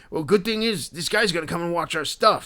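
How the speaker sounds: high, insistent dude voice; intense Philly dude. Retold or imitated. Collector planning autographs with two fans, high dude impression. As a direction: imitate the guy dividing up the plan. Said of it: "the impression that I was doing of him".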